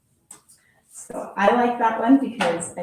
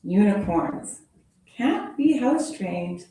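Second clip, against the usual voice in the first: lively storybook read-aloud; animated picture-book reading voice; reading to children. Acted. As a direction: read it like story time for kids.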